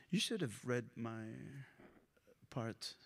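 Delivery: unvoiced side whisper. Real, not acted. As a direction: whisper it as a quick aside. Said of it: "aside to reader".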